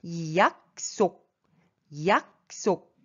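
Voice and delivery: 약속 split in two, 속 starting on a plain S; careful teaching model of 약속; clear S. Shown as a demonstration. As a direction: say 약속 syllable by syllable, S not SH. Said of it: "Ici, c'est bien S".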